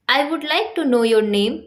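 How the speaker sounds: very slow, carefully spaced English words; slow teaching demo. Shown as a demonstration. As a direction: dictate it word by word to a learner. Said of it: "example देखिए".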